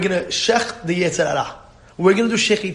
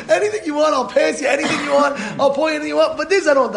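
pleading refusal; 6 semitones higher, faster than usual. Retold or imitated. Server pleads he won't pour.

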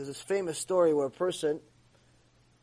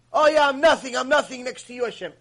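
mock piety; 4 semitones higher, 4 dB louder than usual. Mocking empty show of humility.

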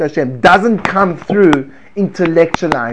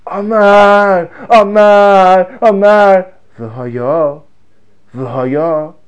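fervent repetition; 3 semitones higher, 5 dB louder, much slower than usual. Shown as a demonstration. Rabbi chanting to students, loud and fervent. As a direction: pound the word home. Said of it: "my intonation, my voice".

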